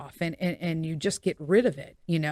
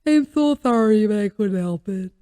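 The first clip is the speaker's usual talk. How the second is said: higher, sorry puppy voice; Buster's voice; 3 semitones higher, 4 dB louder than usual. Retold or imitated. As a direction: beg forgiveness like a guilty dog. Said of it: "that's what Buster sounds like".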